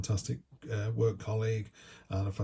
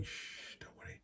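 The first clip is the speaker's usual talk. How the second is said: hushed, soothing whisper; 20 dB quieter than usual. Acted. Card figure whispering to put off the bills, whisper. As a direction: shush them, then whisper it away. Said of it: "she's whispering".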